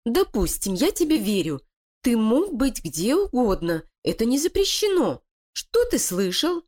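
high, sly voice of a plotting wife; scheming female voice. Acted. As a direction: persuade her partner, cold and cunning. Лилия допрашивает крысу. (коварная интриганка)

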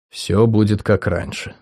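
thoughtful. Acted. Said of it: "задумчиво повторил в ответ".

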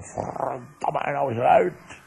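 mild mock yell, rising at the end; half-hearted shout of a fed-up father; retold yell. Father retelling how he yells at his sons, mild mock yell. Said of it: "schreeuw van".

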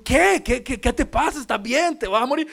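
high, loud, hammed-up crying voice; imitated wailing alarm; mock tearful panic. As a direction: blurt anxious questions as if bursting into tears. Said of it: "yo me pongo a llorar también".

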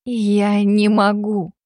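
slow, heavy, hopeless refusal. A narrator's reading. Liza refusing the Alpha, slow hopeless voice. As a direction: say it with no hope left. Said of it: "Её голос был полон безысходности".

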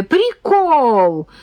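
put-on high, gleeful child's shriek; delighted squeal. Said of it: "взвыла в полном восторге Таня". (восторженный визг)

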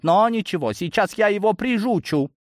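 high-pitched vow of payback; indignant threat. A narrator's reading. Semyon drawing his gun on the driver, threatening. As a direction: keep the outrage high and combative.

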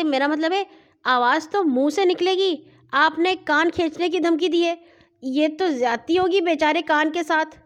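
a touch of nervous pleading; frightened. A narrator's reading. Farooq protests mother's ear-pulling threat, mildly frightened. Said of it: "ڈری ڈری آواز میں".

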